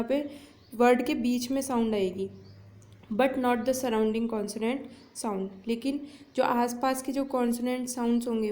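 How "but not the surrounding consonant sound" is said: very slow, word by word, like dictating notes; slow dictation. Shown as a demonstration. Teacher dictating a definition to her students, very slow. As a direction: read the definition slowly so students can write it. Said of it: "teacher reads the definition aloud".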